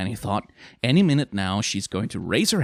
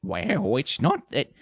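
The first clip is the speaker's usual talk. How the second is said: hesitant, uneasy excuse; awkward; 6 semitones higher than usual. A narrator's reading. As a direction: fumble for words under pressure. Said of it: "began Beryl awkwardly".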